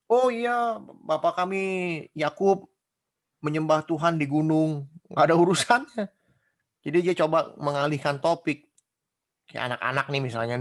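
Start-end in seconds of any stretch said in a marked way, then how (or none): 0.1-4.9 higher, louder hasty change of subject; flustered dodge. Acted. Samaritan woman dodging Jesus's question, flustered and higher. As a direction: blurt it out to dodge, then slow down.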